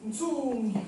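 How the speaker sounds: Ntsumbi with the n and ts, ntuŋgi; model pronunciation. Shown as a demonstration. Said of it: "Parce que peut-être Ntsumbi".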